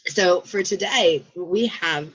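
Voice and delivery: hoarse frog voice; croaky, hoarse throat. Real, not acted. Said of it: "excuse my frog voice".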